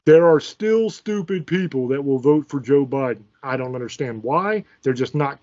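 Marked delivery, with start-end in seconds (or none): 0.1-3.2 slow and deliberate, each word spelled out; condescending slow repeat; talking slower. Shown as a demonstration. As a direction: talk slower as if to an idiot. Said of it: "I'll talk slower".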